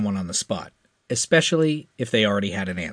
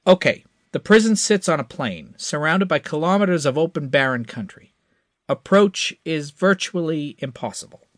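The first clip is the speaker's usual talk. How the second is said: higher, confident hotshot; eager young pilot; 6 semitones higher, 3 dB louder than usual. A narrator's reading. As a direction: promise it with cocky eagerness. Crash briefing, higher voice.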